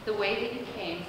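gently hushed instructions; mildly softened, calm divine voice; God's whispery voice. Acted. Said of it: "in that whispery voice".

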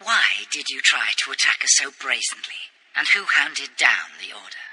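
soft, low calm threat; quiet menace. Acted. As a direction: interrogate in a hushed threat.

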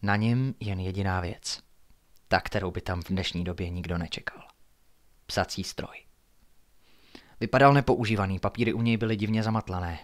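measured, hushed suspense reading; low-key storyteller with deliberate pauses; story narration. A narrator's reading. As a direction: read a mystery aloud at night. Narrates a night-time story.

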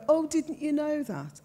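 high-pitched, exaggerated Brummie echo; mocking Brummie mimicry. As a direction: mimic the Brummie accent back, pitched right up. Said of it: "mimicked it back to me".

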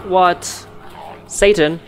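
high, loud startled outburst; jolted by a sudden monster; startled yell. Real, not acted. Startled by Satan appearing.

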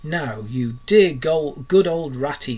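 slow, coaxing plea; butter up your friend slowly; a mild pleading wheedle; imploring. Acted. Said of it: "said Toad imploringly".

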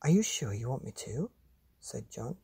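put-on lively read-aloud voice for children; storybook reading. A narrator's reading. Reading a monster picture book to children, animated. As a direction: tell it like a bedtime story to kids.

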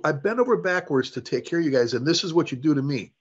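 retold indignant tirade, kept short of shouting; retold seething. Officer chewing out firefighter over a demerit, retold seething. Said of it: "I was seething. I was so upset".

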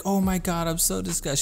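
high-pitched imitation of a grossed-out friend; mock freaking out. Friend got blood on her lip, mock disgusted freak-out. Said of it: "she freaks out".

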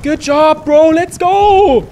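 high, loud hyped bro voice; gym bro. Pretend.

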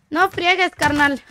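lightly mocking Chilango accent. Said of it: "Así hablan, ¿no?".

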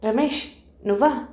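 a touch of surprise, as if just woken; mild startled question; surprised. A narrator's reading. Visu, woken at the door, mildly surprised to see Ramesh. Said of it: "అన్నాడు ఆశ్చర్యంగా".

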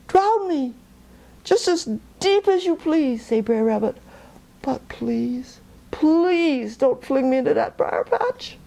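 pleading rabbit. Acted.

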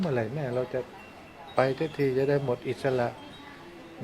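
soft heartfelt preaching; quiet earnest sermon. Acted.

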